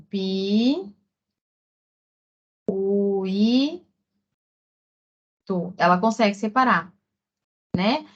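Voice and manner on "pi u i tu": pi, u, i, tu spaced out one sound at a time; syllable by syllable. Shown as a demonstration. Teacher sounding out a child's spelling of pirulito, pausing between each piece. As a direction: spell it out slowly like a child writing. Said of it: "ela escreve assim".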